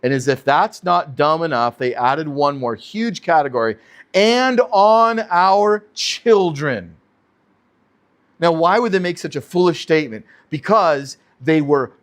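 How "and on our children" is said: slow, drawn-out mocking voice; slow sneering mimicry of their claim; mock pompous quote. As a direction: read it back like a proud fool.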